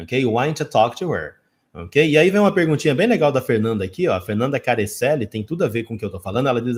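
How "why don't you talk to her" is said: "Why don't you talk to her?" as "why-ncha talk-to-er"; connected speech. Shown as a demonstration. Teacher repeating the natural spoken version, run together. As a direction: link every word, "don't you" as "ncha". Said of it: "vai se tornar".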